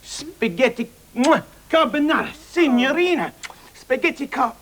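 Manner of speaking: gushing Italian flourish; mock Italian accent. Waiter praising the diner's order, mock Italian accent. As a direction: relish the dish in hammed-up Italian English.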